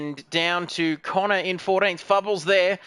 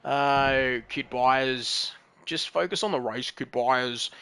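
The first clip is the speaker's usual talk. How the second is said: much lower, put-on voice; low mock voice of a fellow racer; bad impersonation of HSV; 7 semitones lower, 4 dB quieter, slower than usual. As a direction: drop into a deep mock impersonation.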